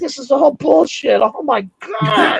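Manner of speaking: high, laughing cry of disbelief; slow, laughing oh my God. Retold or imitated. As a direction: laugh it out like it's absurd. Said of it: "I'm like".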